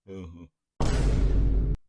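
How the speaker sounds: sarcastic nasal-free put-on uh-huh; mocking uh-huh. Mocking the promoter with a put-on uh-huh. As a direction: scoff it in a mock voice.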